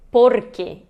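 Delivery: "porquê" said POR-ke; stress on first syllable. Shown as a demonstration. Teacher concludes the rule, "porquê" stressed on POR. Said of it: "quer dizer que ela é uma paroxítona".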